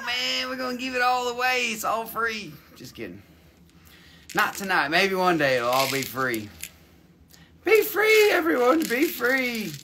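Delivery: a country bumpkin voice, lightly put on; hammed-up hillbilly drawl. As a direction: play a rowdy rural hick hosting the show. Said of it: "talk funny".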